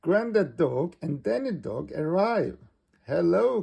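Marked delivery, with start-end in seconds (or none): 3.1-3.6 high, loud greeting hello; calling out. A narrator's reading. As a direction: call out to friends arriving. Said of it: "calls out Peppa".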